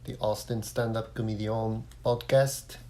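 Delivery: host in a put-on French accent. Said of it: "I took my French accent as far as it could go".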